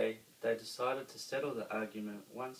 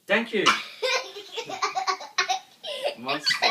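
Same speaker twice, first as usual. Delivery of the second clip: laughing thanks; 13 dB louder than usual. A narrator's reading. Monster thanks from bakery.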